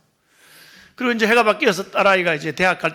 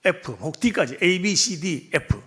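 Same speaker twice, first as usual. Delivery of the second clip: slow listing; much slower than usual. Acted. Slowly listing grades for congregation.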